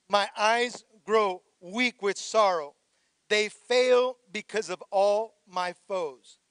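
slow, measured psalm reading; slow scripture reading. Acted. Pastor reading the psalm to the church, slow and measured. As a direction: read each line slowly and heavily.

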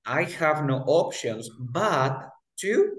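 I have no options but to very slow and even; slow model sentence; slow demo. Shown as a demonstration. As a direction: spell out the phrase slowly. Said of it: "tú vas a decir".

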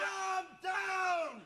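loud exasperated shout; angry shout. Acted. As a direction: bark at him to calm down. Shouts at panicking colleague.

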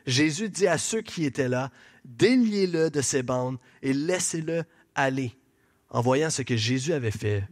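low, measured Bible narration; scripture reading. A narrator's reading. Preacher reading the raising of Lazarus to the congregation, low solemn reading. Reads the Bible passage aloud.

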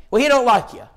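lightly voiced country woman; Phyllis's voice.

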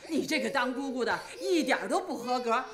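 grandma cooing to her crying granddaughter. Acted. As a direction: coo over the baby to calm her. Grandma takes the crying baby.

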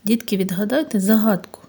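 unvoiced, fast whispered invitation. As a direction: lean in and whisper the riddle to children. Teacher opens riddle in whisper.

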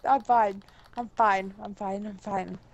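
low, fading to a very soft mumble; calm yourself under your breath; muttered self-reassurance. Real, not acted. Reassuring self after the scare.

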